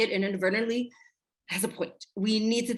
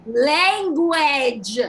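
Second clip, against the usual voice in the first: sharp louder rebuke, Language!; scolding shout; 5 semitones higher, 7 dB louder than usual. Acted. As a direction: snap at the kid to watch his mouth. Mother scolding son's swearing.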